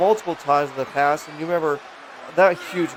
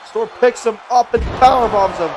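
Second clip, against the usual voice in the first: excited wrestling call; 4 semitones higher, 4 dB louder than usual. Real, not acted. Live wrestling play-by-play call.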